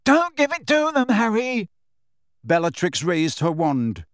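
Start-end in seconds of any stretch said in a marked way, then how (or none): 0.0-1.7 much higher, louder desperate shout; roared. A narrator's reading. Neville shouting at Harry while Bellatrix closes in, much higher and louder. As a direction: beg Harry with all he has. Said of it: "roared Neville".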